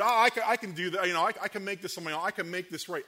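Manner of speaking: loud, high, then rushing fast; eager boast. Acted. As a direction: brag that you can do it alone. Boasting self-reliance to God.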